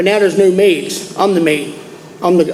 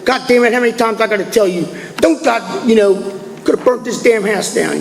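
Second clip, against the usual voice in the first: raised-pitch scolding, at talking volume; mock parental tirade; retold angry father; 3 semitones higher than usual. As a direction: imitate a dad berating his boy.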